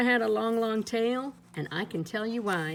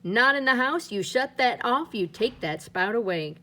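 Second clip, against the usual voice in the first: mildly raised, stern mother's voice; mother scolding; 3 semitones higher than usual. Acted. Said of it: "I know just what she would say".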